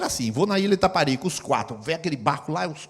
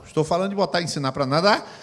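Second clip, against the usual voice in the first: ordinary talk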